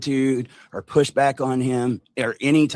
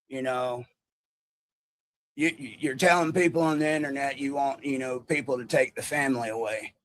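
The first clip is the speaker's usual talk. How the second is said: imitating Larry's accent; 4 semitones higher than usual. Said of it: "my accent isn't that great".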